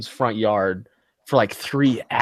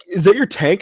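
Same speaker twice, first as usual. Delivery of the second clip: imitating the guy; 7 semitones higher, 3 dB louder than usual. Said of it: "retelling a scene from the video".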